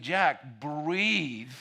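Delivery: urgent coaxing. Retold or imitated. Urging the trembling groom.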